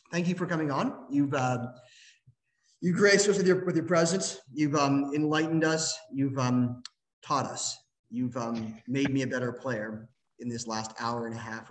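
halting mock-gracious thanks; sarcastic praise, pausing after each "um". Real, not acted. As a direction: grope drily for each compliment. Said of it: "See, that's sarcasm".

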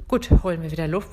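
gasping for air. Shown as a demonstration. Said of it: "bevor wir ersticken".

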